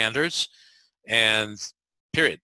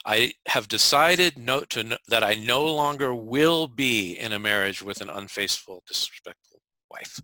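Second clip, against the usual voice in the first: firm. Shown as a demonstration. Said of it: "if you wanted to make this even stronger".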